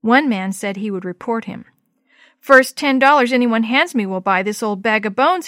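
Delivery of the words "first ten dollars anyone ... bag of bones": a louder mock shout of the ragman. Ragman selling his horse, mild mock shout. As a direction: call out the sale like a rough ragman. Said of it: "he shouted".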